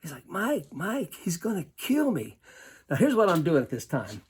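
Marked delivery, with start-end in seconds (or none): 0.3-2.4 higher, mock-fearful plea; timid player begging his coach, mock afraid; imitating scared pleading. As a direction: play the frightened kid begging, lightly. Scared player voiced in the story.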